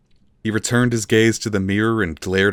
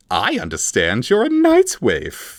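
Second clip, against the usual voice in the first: higher, louder menacing accusation; Vilnix voice; 7 semitones higher, 5 dB louder than usual. A narrator's reading. Vilnix accuses the prisoner, louder menacing tone. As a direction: lay the trap with menace.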